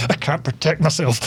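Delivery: restrained imitation of a frantic man; understated mock panic; mock mental rant. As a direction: lightly mimic someone losing it. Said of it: "going absolutely mental".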